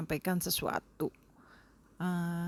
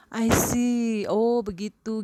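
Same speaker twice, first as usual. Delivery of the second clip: interested reply; 5 semitones higher, 6 dB louder, slower than usual. Shown as a demonstration. Showing attention to a speaker.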